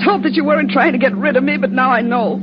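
bitter, building accusation; hysterical. Acted. Spurned girlfriend turning on her lover in the car, hysterical. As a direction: hurl the insult in rising hysteria. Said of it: "don't start that hysterical stuff".

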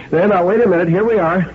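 high-pitched soothing call; reassuring call. A narrator's reading. Parents calling to a child in a nightmare, reassuringly.

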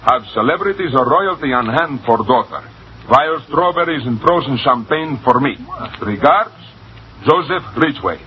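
put-on Russian accent, measured reading. American finishes reading the cablegram for the manager, in a Russian accent. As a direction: dictate the telegram like a Russian. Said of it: "How's my accent?".

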